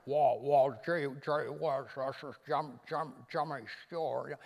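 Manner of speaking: stammering Jimmy Stewart mumble; a lightly voiced, halting Stewart imitation. Reagan doing his typical Jimmy Stewart for the comedian, stammered. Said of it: "he did the typical Jimmy Stewart".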